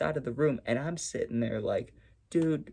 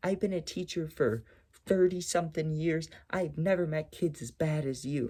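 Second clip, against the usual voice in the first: put-on rant, acted out, not yelling; 3 semitones higher than usual. Retelling how a teacher went off on the class, imitating a teacher's rant. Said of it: "not yelling, but like like a rant".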